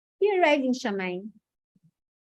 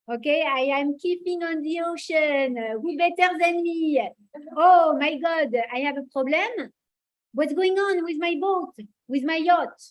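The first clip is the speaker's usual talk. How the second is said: put-on Maurice Benguigui accent; 3 semitones higher than usual. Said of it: "I don't know how the accent of Maurice Benguigui is gonna be".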